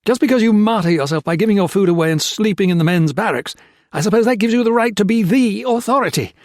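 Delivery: loud, high, bitter outburst; angry tirade against faith; furious rant. A narrator's reading. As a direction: tear into the priest with contempt. Peter's furious rant at the priest.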